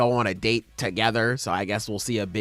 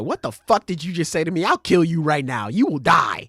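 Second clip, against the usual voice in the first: higher, louder acted outrage; mock furious threat; 5 semitones higher, 4 dB louder than usual. Girl snapping back at a boy in a spat, mock fury. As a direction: build into an indignant death threat.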